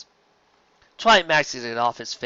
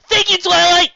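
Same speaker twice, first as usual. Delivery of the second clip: high loud joyful yes; much higher, louder triumphant yes; excited yes; 10 dB louder than usual. Acted. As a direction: burst out with joy. Spike thrilled.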